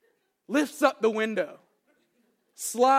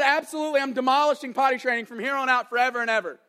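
lightly acted victory proclamation, raised and louder; triumphant little warrior; 3 semitones higher, 5 dB louder, faster than usual. Boy after defeating the toilet, mildly hammed-up triumph. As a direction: declare it like a small dragon-slayer. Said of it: "like a warrior who's just slayed a dragon".

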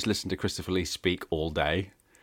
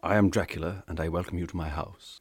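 Dracula voice; 2 semitones lower than usual. Retold or imitated. Christopher Lee's Dracula greeting.

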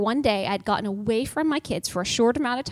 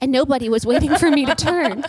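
louder, laughing through the punchline; 3 semitones higher, 6 dB louder than usual. Real, not acted. Telling friends the funny ending, laughing. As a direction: let the laugh spill into the words.

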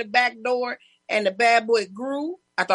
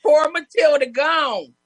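slow, louder hammed-up lament; mock mourning; 4 semitones higher, 4 dB louder, slower than usual. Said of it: "We're like".

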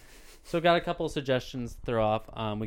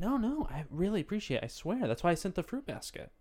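nervous eager uptalk; 3 semitones higher than usual. Acted. Improv nervous new employee.

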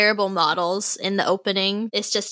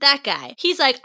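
ordinary talk

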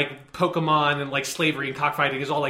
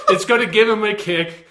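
laughing; 5 semitones higher, 5 dB louder than usual. Retold or imitated. Mocking the song's line.

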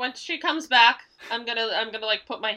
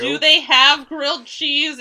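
echoed naive question; 3 semitones higher, 6 dB louder than usual. Retold or imitated. Echoing the acted question.

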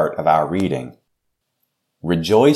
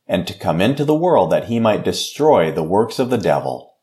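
prayer; 2 semitones higher than usual. Acted. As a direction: lead the congregation in prayer, earnest and steady. Pastor leads a closing prayer.

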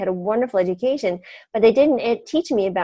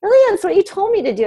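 much higher, louder, incredulous "Really?"; surprised retort; 12 semitones higher, 4 dB louder, faster than usual. Retold or imitated. Patient tells the doctor she only followed orders, incredulous. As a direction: toss it back in disbelief.

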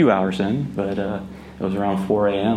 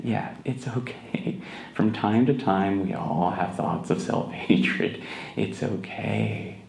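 reassuring; 4 dB quieter, slower than usual. Retold or imitated. Comforting group about self-hatred.

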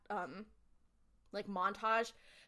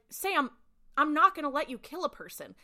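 higher and louder, putting his foot down; Bobby forbids Sam, raised voice; firm refusal; 6 semitones higher, 6 dB louder than usual. Retold or imitated. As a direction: stop him flat out, raising your voice. Bobby refusing, acted quarrel.

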